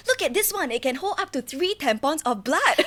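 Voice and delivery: high, proud show-off voice; showing off, thrilled; excited. Retold or imitated. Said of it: "I was like".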